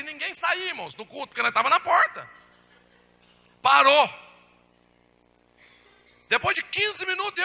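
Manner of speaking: loud, high-pitched storytelling to a congregation; worked-up testimony from the pulpit; excited preaching. Acted. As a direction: raise the voice and pitch, preaching the tale.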